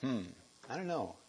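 mock doubting thoughts, ending in a laugh; doubtful listener. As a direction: voice the unconvinced radio listener. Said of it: "and you think".

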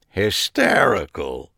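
slow, dry and deadpan; humorless. Acted. Harry unimpressed by the joke, slow and humorless. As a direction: say it with no humor at all. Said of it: "he said without humor, his flat tone".

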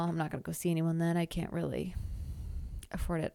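breathless, gasping between words; out of breath. Real, not acted. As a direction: talk while short of breath. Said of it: "I'm, like, so out of breath".

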